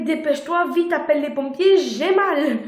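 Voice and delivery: urgent call to call the firemen; urgent plea. Retold or imitated. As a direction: hurry him up, in pain. Urging boyfriend to call help.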